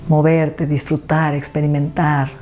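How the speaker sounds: unhurried meditation guide with long pauses; guided meditation. Acted. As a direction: lead the listener gently through it, phrase by phrase.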